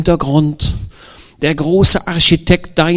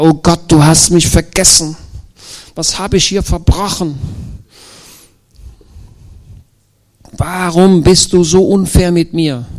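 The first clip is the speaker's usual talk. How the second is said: put-on higher, complaining young prisoner crying out to God; Josef's lament; 5 semitones higher than usual. Preacher voices Josef in prison railing at God, higher and aggrieved. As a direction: protest to God like a wronged young man.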